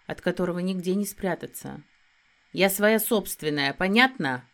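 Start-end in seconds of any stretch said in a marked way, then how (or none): 2.5-4.4 snapped back. Acted. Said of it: "Огрызнулась не хуже волчицы".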